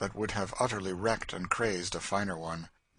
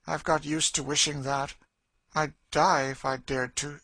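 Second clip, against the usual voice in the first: louder, pitched-up bitter admission; despairing Cassie; 7 semitones higher, 5 dB louder than usual. Acted. Woman admits she wishes for death, despairing. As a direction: confess the wish with fixed despair.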